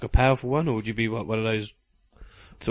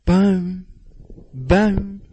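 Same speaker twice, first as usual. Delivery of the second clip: mock boom; 6 semitones higher than usual. Mock echo of co-host's boom.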